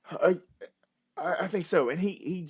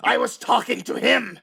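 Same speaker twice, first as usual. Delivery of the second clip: louder, higher irritated retort; angry snap; 7 semitones higher, 9 dB louder than usual. Acted. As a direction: cut him off sharply. Villainess snaps at interrupter.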